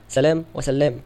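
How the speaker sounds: سلام said slowly, first with light lam and then with doubled lam; careful name pronunciation. Shown as a demonstration. Teacher to students contrasting two names, slow and careful. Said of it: "الأول بفتح المهملة وتخفيف اللام".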